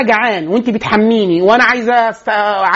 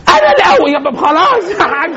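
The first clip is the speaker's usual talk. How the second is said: a high, lightly voiced toddler; lightly played toddler, much higher; little child's voice; 9 semitones higher than usual. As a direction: pitch it up like a small child announcing it. Quoting the child.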